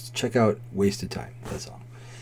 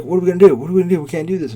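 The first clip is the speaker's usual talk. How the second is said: imitated frantic waitress, high and loud; mock panic, pitched well up; stressed out; 8 semitones higher, 7 dB louder, much faster than usual. Waitress pleading with the cook about the rush, stressed out. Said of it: "she's, like, fucking stressing the fuck out".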